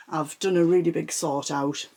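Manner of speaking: breathless while talking; winded, catching breath. Real, not acted. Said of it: "sorry about the breathlessness".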